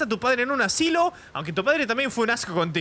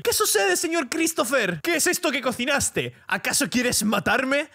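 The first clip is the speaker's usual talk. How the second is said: maid voice; 3 semitones higher than usual. Acted. Maid Rosario answering her boss, higher timid voice. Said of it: "No sé yo qué acento poner".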